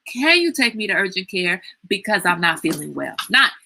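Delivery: hammed-up parent listing every ache; imitating her mother's long-winded complaint; mock rambling mother. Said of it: "Not, you know".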